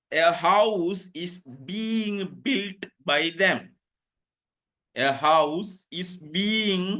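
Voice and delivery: very slow, with gaps between words; careful classroom dictation. Shown as a demonstration. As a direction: dictate it piece by piece for note-takers. Teacher dictates sentence and spelling.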